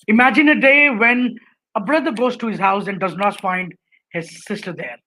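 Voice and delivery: strong start on "Imagine a day when", a beat, then subdued; deliberate pauses. Shown as a demonstration. Lecturer showing where a speaker should pause, with deliberate pauses. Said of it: "these kind of pauses that you need".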